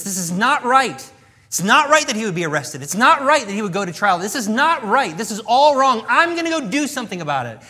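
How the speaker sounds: loud, rising outrage; indignant Peter. Retold or imitated. Voicing Peter's outrage at the arrest.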